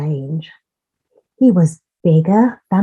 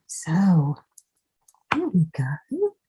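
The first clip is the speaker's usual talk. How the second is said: whispered aside; 7 dB quieter, slower than usual. Real, not acted.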